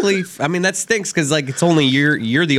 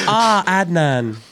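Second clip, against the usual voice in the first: slow, higher, drawn-out swoon; mock swooning Bellucci; 6 semitones higher, much slower than usual. Co-host mocking Bellucci remembering Adnan, slow dreamy swoon. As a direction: stretch out the name like a delighted starlet.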